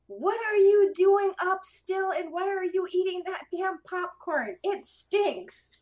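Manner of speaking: loud, high, slow angry yell; a groggy dad's slow, high shout; sleep-talking yell. Retold or imitated. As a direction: bellow it at the kids, half asleep. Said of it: "I'm shouting this at them".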